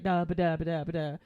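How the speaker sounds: loud, repeated stuttering syllables; imitated tongue-tied stammer. Shy boy trying to talk to his crush, mock stammering. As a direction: babble as if the words won't come out. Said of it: "couldn't even get through a sentence".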